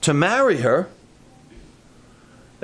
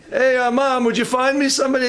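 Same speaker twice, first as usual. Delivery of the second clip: higher, quicker mock plea; a lightly voiced son pleading with mom; 5 semitones higher than usual. Preacher mimics a young man asking mom for a match, higher and quick.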